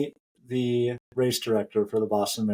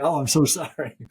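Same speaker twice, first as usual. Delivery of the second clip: higher, gushing retold apology; mock-awed apology; 4 semitones higher, 4 dB louder than usual. Runner apologizing to the race director, humbled. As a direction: replay an embarrassed, bowing apology. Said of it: "basically wanted to bow to the guy".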